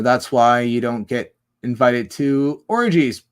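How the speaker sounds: loud, drawn-out emphatic delivery; slow it down and land hard on orgies. Real, not acted. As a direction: say it big and slow. Repeats the line in two ways.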